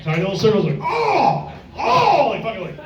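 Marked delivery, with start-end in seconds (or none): 0.8-2.3 high held mock gagging-free moan; sustained high cartoon "ahh"; high open-throated "oh". Imitating men deep-brushing their teeth.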